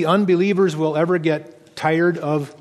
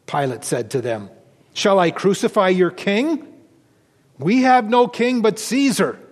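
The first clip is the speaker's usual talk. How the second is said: measured reading from the pulpit, voicing Pilate, Jesus and the crowd; scripture reading. Pastor reading the Gospel to his congregation, a measured scripture reading. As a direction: read the Passion aloud to the congregation with a lifted voice for each speaker. Pastor reads the Passion from John.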